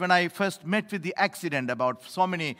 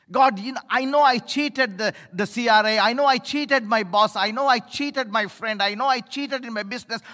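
confessing prayer; 5 semitones higher, 4 dB louder than usual. Acted. Voices a confession of sins.

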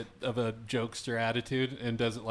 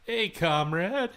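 mock Russian accent; 7 semitones higher, 4 dB louder, much slower than usual. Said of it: "I wish I could do a Russian accent".

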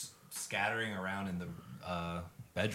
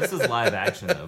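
laughing; 9 semitones higher, 11 dB louder than usual. Real, not acted. Laughing defence of the show.

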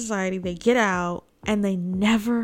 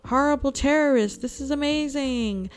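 higher, lightly gleeful mock boast; mock triumph; 5 semitones higher than usual. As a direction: crow about a win, half-mocking. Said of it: "this could have been Trump's shining glory almost".

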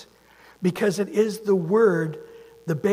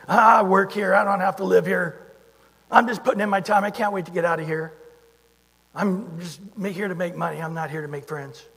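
mock grudging worker; 5 dB louder than usual. Mocking a grudging worker's attitude.

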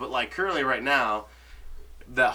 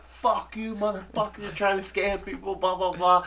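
imitating an angry man telling off a scammer; hammed-up retold curse; mock angry cursing; 8 semitones higher than usual.

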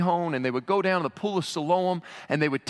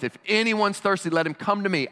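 higher, urgent proclamation; urgent outburst; 5 semitones higher than usual. Acted. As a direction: burst out with the invitation. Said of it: "he burst forth".

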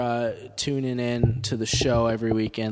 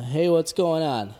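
upbeat greeting; 4 semitones higher, 4 dB louder than usual. Real, not acted. Greeting a live caller.

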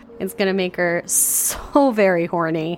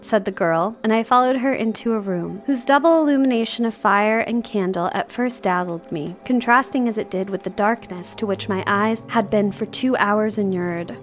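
measured literary read-aloud; novel narration. A narrator's reading. Host reading Jane Eyre to co-host, storybook narration.

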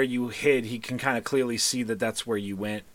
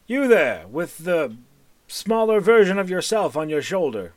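put-on lightly raised, louder old wizard calling out; 4 semitones higher, 5 dB louder than usual. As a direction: hail the stranger like a theatrical mage. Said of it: "looks at you and says".

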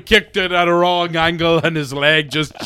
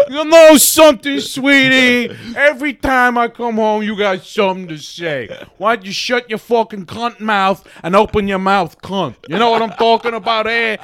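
loud, higher sleazy comic growl; bully her like a sleazy stand-up; Andrew Dice Clay; 4 semitones higher, 4 dB louder than usual. Retold or imitated. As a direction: Santiago turned Dice Clay, sneering loudly at his wife. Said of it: "Turns into Andrew Dice Clay".

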